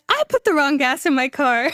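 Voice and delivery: laughter creeping into the words; laughing confession. Real, not acted. Driver admitting her blunder to friends, real laughing confession. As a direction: confess it while starting to laugh.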